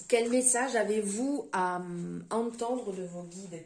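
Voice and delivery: en buvant une gorgée; while sipping a drink. Real, not acted. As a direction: parler entre deux gorgées. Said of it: "Pardon, je bois en même temps". (en buvant en même temps)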